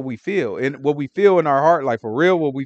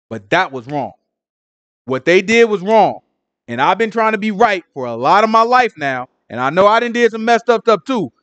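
honest angry prayer; 3 semitones higher, 3 dB louder than usual. Retold or imitated. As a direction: pour out a grievance in earnest. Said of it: "I be praying like".

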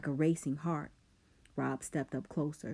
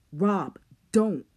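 loud alarmed shout; 4 semitones higher, 9 dB louder than usual. A narrator's reading. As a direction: shout to stop him. Coop shouting.

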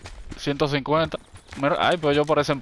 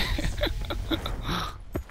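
evil laugh; 4 semitones higher, 8 dB quieter than usual. Pretend. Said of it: "La risa malvada mía".

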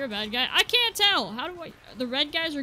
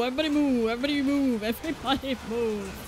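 urgent shout; 3 dB louder than usual. Real, not acted. Urgent call to teammates.

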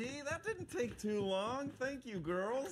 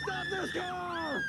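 loud, high, drawn-out command; furious shout; 7 semitones higher, 5 dB louder, slower than usual. Acted. Dad stopping girls' car, furious shout. Father yelling at daughters' car.

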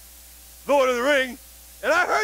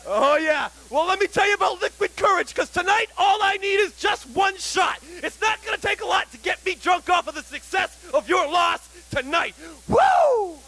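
wrestling promo. Acted. Wrestler hypes the match.

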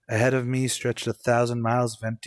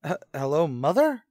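stammering hello; 3 semitones higher than usual. Acted. Calling mother, fearful.

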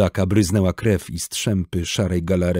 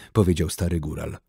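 ordinary delivery, nothing marked

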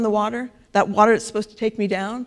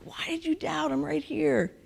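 soft breathy whisper, then higher and hushed; gentle whisper; 6 semitones higher, 8 dB quieter than usual. Retold or imitated. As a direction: gently chide a friend in a whisper. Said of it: "He's like".

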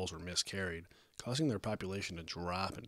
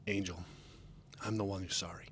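calm, composed reassurance; gentle; 4 dB quieter than usual. A narrator's reading. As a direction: take the blame kindly. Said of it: "He spoke as gently as he could".

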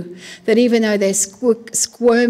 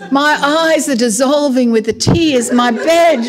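mock-tragic lament, a little louder; whinging; 2 semitones higher, 4 dB louder than usual. King David whinging in the Psalms, melodramatic. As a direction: play up the woe, complaining. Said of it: "David was the biggest whinger".

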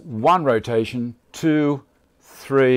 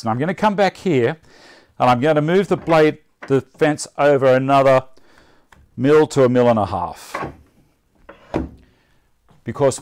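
shouting over table saw; 3 dB louder than usual. Real, not acted. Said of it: "so I stop talking too loud".

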